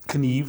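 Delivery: खनीव with the k said before the n; Swedish k sounded. Shown as a demonstration. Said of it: "जैसे है".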